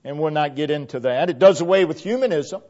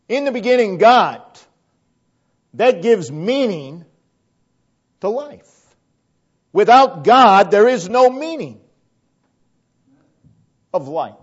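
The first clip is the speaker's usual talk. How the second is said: raised, forceful sermon delivery; emphatic preaching; 4 semitones higher, 6 dB louder than usual. Real, not acted. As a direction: preach it out with weight on each phrase.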